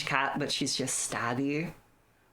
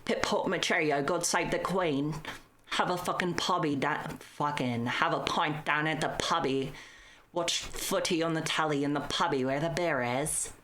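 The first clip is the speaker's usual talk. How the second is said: mock British accent; 2 semitones higher than usual. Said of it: "and then she's go".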